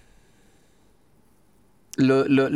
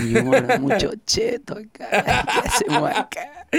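mock posh girlfriend; 9 semitones higher than usual. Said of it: "Nosotros tripeamos".

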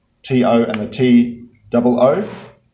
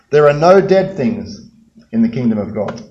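echoing angel voice. Pretend. The angel speaking inside the empty tomb, echoing. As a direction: let it boom and echo like in a stone tomb. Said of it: "all they can hear is the angel's voice reverberating off the walls".

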